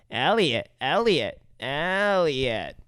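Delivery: lightly voiced alien name-calling. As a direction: call the name slowly, stretching the last one. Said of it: "And E T says".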